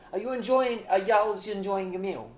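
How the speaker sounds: lightly attempted, badly faked Southern accent. Waitress to a visitor in Taco Bell, bad Southern accent. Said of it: "Is that your Southern accent?".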